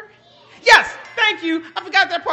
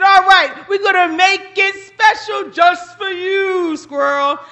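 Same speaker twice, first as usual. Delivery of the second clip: louder, grand showman Buzzard; showy Buzzard; 5 dB louder than usual. Acted. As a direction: announce the stunt like a proud pilot. Buzzard voiced in animal tale.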